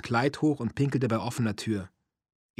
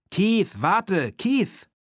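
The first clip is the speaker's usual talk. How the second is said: high, loud urgent call; calling after someone; 9 semitones higher, 6 dB louder, much slower than usual. A narrator's reading. Woman calling after fleeing Keith, urgent shout. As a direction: cry out to stop him, pitch leaping up.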